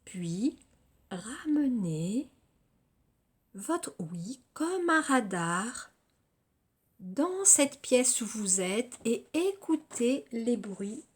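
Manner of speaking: measured yoga nidra guidance with long pauses between phrases; guided relaxation. Acted. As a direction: guide them through body and senses, phrase by phrase.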